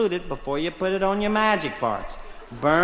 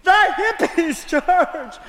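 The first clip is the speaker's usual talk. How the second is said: high, loud shocked cry; outraged wife; 9 semitones higher, 4 dB louder, slower than usual. Acted. Margaret crying out to George about the hippies, high and loud. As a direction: blurt it out in scandalised alarm.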